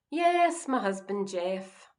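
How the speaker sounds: indignant emphasis. Acted. Wife revealing her own husband is in the photo, indignant.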